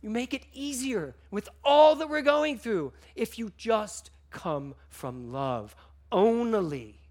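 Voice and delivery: fighting back tears while speaking; choked-up, slowing plea; real emotion. Real, not acted. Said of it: "I don't know why I'm getting emotional".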